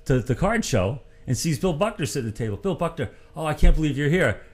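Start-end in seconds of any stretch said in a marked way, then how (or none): 2.6-4.4 high-pitched, mildly amazed greeting; quoted excitement, pitched up; retold amazement. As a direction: act out running into someone unbelievable. Acted excited greeting of ballplayer.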